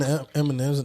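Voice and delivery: chewing while talking; talking through a mouthful of candy; mouth full. Real, not acted. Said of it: "we can hear you eating".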